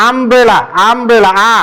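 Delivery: আমব্রেলা said with a clear open "আ" at the start; demonstrating the আ sound in আমব্রেলা; umbrella with open a. Shown as a demonstration. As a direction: stretch the first sound of আমব্রেলা to "আ". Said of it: "আ এর মতো হচ্ছে".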